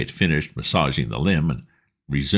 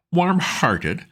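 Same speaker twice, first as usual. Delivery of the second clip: much higher, disbelieving; incredulous echo; 11 semitones higher than usual. A narrator's reading. Bertie scoffing at the valet's tactful word. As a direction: echo the word warm-hearted in amazement.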